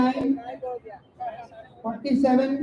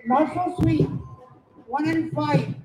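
calling out the numbers; sing-song number calls for the hall; bingo caller; slower than usual. Acted. Housie numbers called to players.

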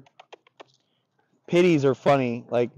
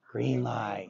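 go signal; 2 semitones lower, 5 dB quieter than usual. Shown as a demonstration. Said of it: "there's contrast".

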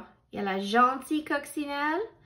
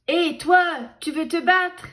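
louder, higher picking a fight; loud high challenge; 5 semitones higher, 6 dB louder than usual. A narrator's reading. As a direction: shout the dare up high. Grumpy ladybug challenges skunk.

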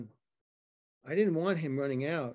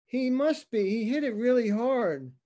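higher, louder, urgent and rattled; panicked caller; 6 semitones higher, 5 dB louder than usual. Acted. Cab driver calling nine one one, panicked and loud. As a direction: blurt it out like a scared witness on the phone.

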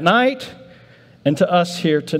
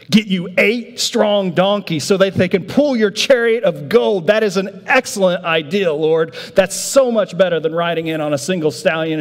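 eager disciple; 3 semitones higher than usual. Acted. Disciple pitches a grand chariot plan.

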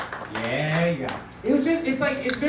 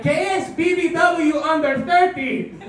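put-on high, slow, loud Spanish-accented mom; mom questioning; 11 semitones higher, 4 dB louder, slower than usual. Mom confronting her son about his search history, high and loud. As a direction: demand an answer like a stern Colombian mom.

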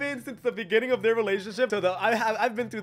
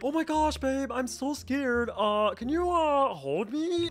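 Dixie voice; 2 semitones higher, slower than usual. Shown as a demonstration. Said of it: "wait, in Dixie voice. So it would sound like".

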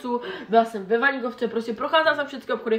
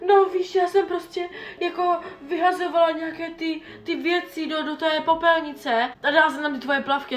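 higher, casual mom explaining; mom's breezy excuse; 5 semitones higher than usual. Retold or imitated. Daughter imitating mom's casual excuse, higher. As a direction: lightly mimic a carefree mother.

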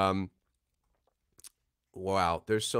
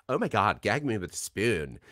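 lightly put-on valley-girl lilt; mock valley girl. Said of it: "I sound like a valley girl".

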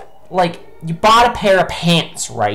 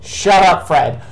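angry shout; 4 dB louder, slower than usual. Real, not acted. Yelling at golfer in game.

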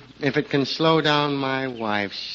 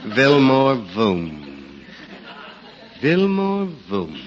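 slow, booming call of Vilmore Voom; calling down a barrel; 3 semitones lower, slower than usual. Pretend. Rip booms the name down a rain barrel, slow. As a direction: boom the name slowly into an empty barrel. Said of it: "a beautiful name to shout down a rain barrel".

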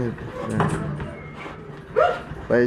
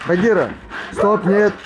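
firm shout; 6 semitones higher than usual. Real, not acted. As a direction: shout the dog off. Stopping the dogs fighting.

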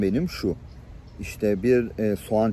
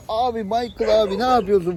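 shocked protest; 9 semitones higher than usual. Retold or imitated. Protesting after being slapped.

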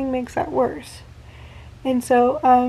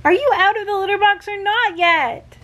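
pet voice; 8 semitones higher than usual. Real, not acted. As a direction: coo at the cat, higher. Talking to her cat.

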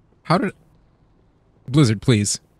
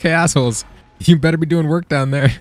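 mock yell; 3 semitones higher, 6 dB louder than usual. Quoting a man yelling at others.

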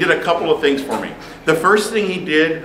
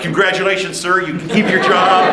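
re-enacted cheer, raised in pitch; triumphant congratulations; 4 semitones higher than usual. Student telling teacher his job is safe, triumphant. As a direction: deliver the good news proudly, pitched up.

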